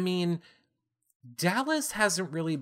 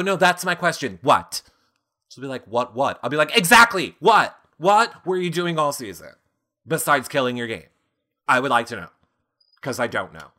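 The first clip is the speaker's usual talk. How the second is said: loud exasperated grilling; 7 dB louder, faster than usual. Pretend. Imagined grilling of Ika.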